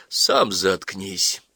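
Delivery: slow, even, unbothered comeback; calm retort. Acted. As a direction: answer coolly, taking your time. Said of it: "спокойно сказал Сорняков".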